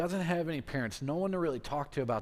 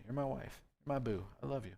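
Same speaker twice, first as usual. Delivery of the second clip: softer, a lightly voiced doting husband; tender king; 5 dB quieter than usual. King softly tells his wife Esther he loves her, tender. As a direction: murmur it like a smitten king, softly.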